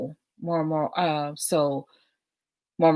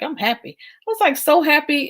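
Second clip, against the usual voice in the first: retold joy; 10 semitones higher, 8 dB louder than usual.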